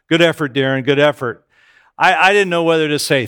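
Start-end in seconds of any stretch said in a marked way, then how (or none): 0.1-1.5 a lower, steady ex-Marine buddy voice; deep voice. Retold or imitated. Ex-Marine gym mom consoling Darren, in a lower, gruff voice. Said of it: "she says in this deep voice".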